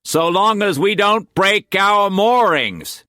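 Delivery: high, slow character voice, falsely calm; lying reassurance. A narrator's reading. Cooper reassuring Siobhan in the storm, high, slow. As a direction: voice the lie as comfort. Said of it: "he lied".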